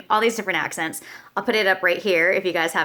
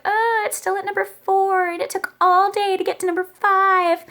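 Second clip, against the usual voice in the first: jaded; 11 semitones higher than usual. Retold or imitated. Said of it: "So I got all jaded".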